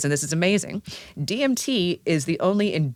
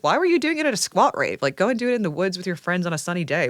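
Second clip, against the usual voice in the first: imitating her own scolding reply to ravers; exasperated retort; 3 semitones higher than usual. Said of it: "And I'm like".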